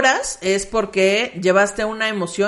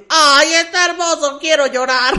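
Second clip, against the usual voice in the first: higher, louder, slow gushing; 7 semitones higher, 6 dB louder than usual. Retold or imitated. Friend texting about the puppy, gushing. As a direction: gush over the puppy photo. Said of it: "me manda mensaje Pati".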